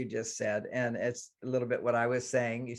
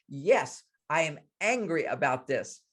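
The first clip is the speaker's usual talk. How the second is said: mild mock indignation; emphatic kid's retort, lightly acted; angry little girl. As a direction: imitate a child firmly owning her anger. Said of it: "She gets angry".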